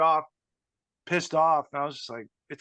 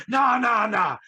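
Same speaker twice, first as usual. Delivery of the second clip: much higher, louder hammed-up tirade; mock angry rant; 9 semitones higher, 5 dB louder than usual. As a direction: play the offended loudmouth ranting. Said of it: "he's like".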